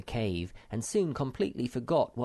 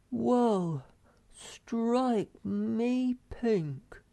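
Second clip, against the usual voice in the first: high, slow amazed exclamation; astonished Moomin Troll; 13 semitones higher, much slower than usual. A narrator's reading. Young troll staring at empty sea, high amazed drawl. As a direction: stretch it out in wonder. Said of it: "said Moomin Troll".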